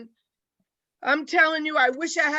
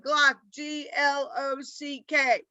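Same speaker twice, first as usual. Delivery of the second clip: put-on kid spelling; slower than usual. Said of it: "He said".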